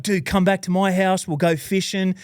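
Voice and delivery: eager invitation. Retold or imitated. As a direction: fire him up with a generous offer. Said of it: "And he's like".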